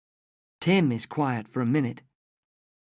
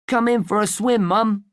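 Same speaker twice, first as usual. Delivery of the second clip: calling out; 6 semitones higher, 4 dB louder than usual. Acted. Boy calls mother from the water.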